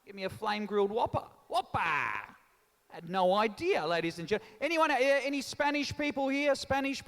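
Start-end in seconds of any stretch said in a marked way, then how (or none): 0.1-1.8 mock whopper order. Shown as a demonstration. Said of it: "you were saying oppa and not whopper".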